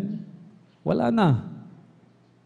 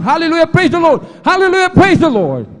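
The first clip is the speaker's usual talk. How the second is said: loud high ecstatic praise cry; shouting praise; 13 semitones higher, 10 dB louder than usual. Retold or imitated. Preacher acting out the sister shouting praise on the plane. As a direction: shout it like she won't stop. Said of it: "Sumigaw ng sumigaw ng".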